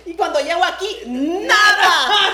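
loud, high laughing outburst on nada; laughing exclamation. Real, not acted. Guest laughing about understanding no English here. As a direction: burst out laughing at your own story.

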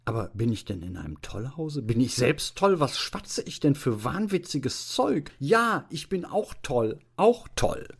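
starts contained, climbs to high frenzy; raging bewilderment. Acted. Deputy headmaster doubting his own sanity, increasingly frantic. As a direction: build from questioning to a manic cry. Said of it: "brüllte der Konrektor Paulmann in höchster Wut".

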